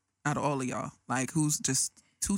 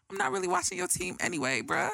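retorting; 13 semitones higher than usual. Retold or imitated. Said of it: "I was like".

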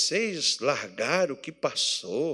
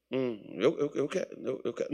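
mumbled, reluctant eu quero; a groom saying yes without any joy; half-hearted yes; 5 semitones lower, 10 dB quieter than usual. Retold or imitated. Pastor imitating a groom's limp, unwilling yes. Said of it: "Não, não fala com gosto".

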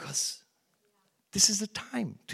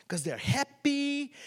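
whisper; 8 semitones higher than usual. Retold or imitated. Newcomer wondering about happy staff.

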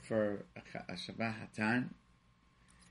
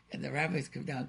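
ordinary talk

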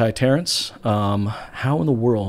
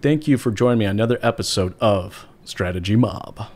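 upbeat, louder announcer opening; radio announcer voice; 3 dB louder than usual. Pretend. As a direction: open the show like a radio host. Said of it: "That's my radio announcer voice".

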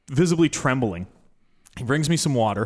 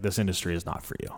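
lower, softer, grave verdict; blunt verdict; 4 semitones lower, 7 dB quieter than usual. Retold or imitated. Mentor telling the applicant he failed, low and grave. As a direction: drop the voice to deliver the bad news. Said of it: "He's like".

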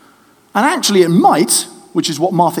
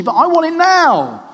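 impatient Martha; 8 semitones higher than usual. Acted. Martha voiced pleading with Jesus.

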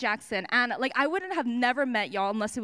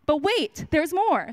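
infomercial pitch; 4 semitones higher, 4 dB louder than usual. Pretend. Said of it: "like an infomercial".

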